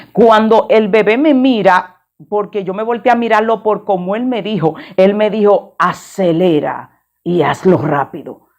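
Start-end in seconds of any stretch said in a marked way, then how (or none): 5.8-8.5 lower, slow, eerie voice not his own; as if something else speaks through the boy; possessed child's voice. Retold or imitated. Boy on the roadside warns driver, eerie possessed voice. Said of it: "me habló como que no era él".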